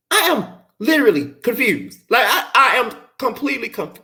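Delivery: giggling through the words; laughing. Real, not acted. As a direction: laugh in disbelief. Laughs at the show.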